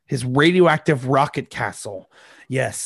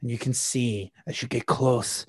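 ordinary talk

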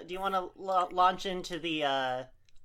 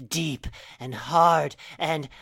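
husky purr; 3 semitones lower, 6 dB louder, slower than usual. Acted. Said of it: "let her voice drop into a husky purr".

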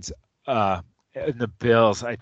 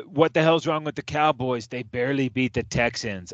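mock critic. Sports host parodying critics of his Cowboys, mock disapproval. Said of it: "the narrative is so different".

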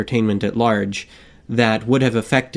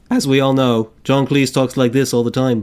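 put-on a light English accent in the manner of John Cleese; John Cleese impression. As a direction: lightly play a posh Brit the way Cleese might. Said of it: "I'll sound like John Cleese".

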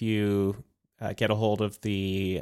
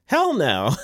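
louder, forceful hell no; 4 semitones higher, 5 dB louder than usual. Real, not acted. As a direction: bark hell no with a grin. Repeated answer, louder and different timbre.

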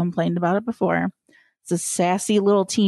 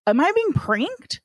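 incredulous higher; 6 semitones higher than usual. Retold or imitated. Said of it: "I'm like".

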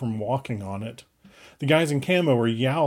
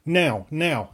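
urgent shout; 4 semitones higher, 3 dB louder than usual. A narrator's reading. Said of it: "I shouted through it".

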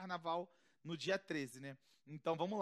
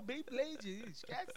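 laughing; 5 semitones higher, 4 dB quieter, much slower than usual. Real, not acted. Laughing at own joke.

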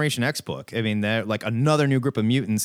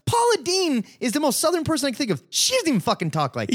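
laughing. Real, not acted.

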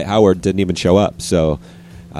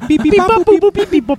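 very high robot beeps; squeaky little robot beeping; toy robot voice; 5 dB louder than usual. Pretend.

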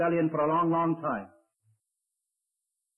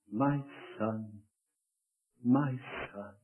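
weeping lament; 4 semitones lower, slower than usual. Acted. Preacher voicing David weeping for his son. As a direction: grieve over the lost son. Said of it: "he wept".

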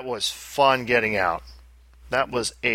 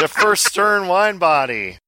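grand announcement; 7 semitones higher, 5 dB louder, slower than usual. Pretend. Hyping a beloved pinball machine.

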